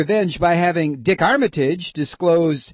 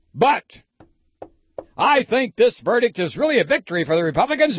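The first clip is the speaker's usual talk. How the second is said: Limbaugh impression; faster than usual. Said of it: "So here Limbaugh describes how".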